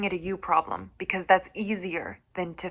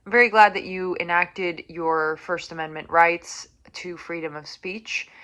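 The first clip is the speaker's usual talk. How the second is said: sarcastic thanks. Real, not acted.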